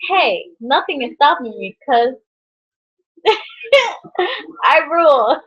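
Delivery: a hint of playful bold defiance, ending in a shout with a laugh; mock bravado. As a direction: act fearless and cocky, half laughing. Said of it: "but you're like".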